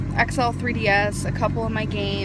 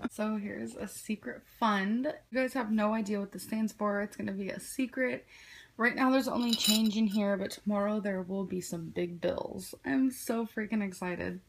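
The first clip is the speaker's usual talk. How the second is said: soft, secretive tone; hushed; 7 dB quieter than usual. Real, not acted. Secret fund, talking low.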